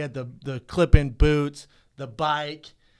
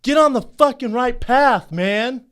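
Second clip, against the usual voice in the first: higher, louder mock shout of the angry biker; retold biker yell; 8 semitones higher, 7 dB louder, slower than usual. Retelling the cyclist yelling at him on the path, mock shout. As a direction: bark it like the cyclist telling him off. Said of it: "And he goes".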